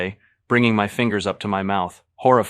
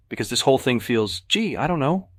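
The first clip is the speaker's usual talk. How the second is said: higher, louder, biting sarcasm; sarcastic scream; 7 semitones higher, 5 dB louder than usual. A narrator's reading. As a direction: lash out at her boyfriend. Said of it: "she screams".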